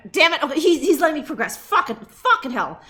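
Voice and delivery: real exasperated cursing at the game; exasperated disbelief. Real, not acted. Player surprised the game lets him progress, exasperated. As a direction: swear in loud, rattled disbelief.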